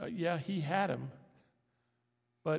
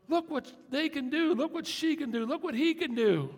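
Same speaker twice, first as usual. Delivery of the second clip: higher, mock-awed gawking at someone else's talent; envious onlooker; 9 semitones higher, 5 dB louder than usual. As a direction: gape in exaggerated admiration. Envious onlookers voiced by preacher.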